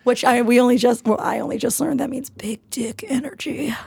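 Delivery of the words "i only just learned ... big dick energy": sheepish whisper. Real, not acted. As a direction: whisper it, a little embarrassed. Embarrassed admission.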